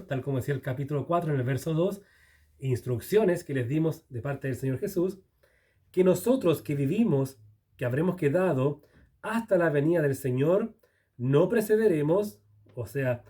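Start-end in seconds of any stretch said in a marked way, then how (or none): 5.9-12.4 scripture reading. Acted. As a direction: read the promise out with weight.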